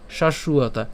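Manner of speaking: "শাশ্বতা" run together as shashuata; joined pronunciation. Shown as a demonstration. Teacher repeats the joined form for learners, joined pronunciation. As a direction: link sh straight into ua in "শাশ্বতা". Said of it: "আর যদি একসাথে উচ্চারণ করি".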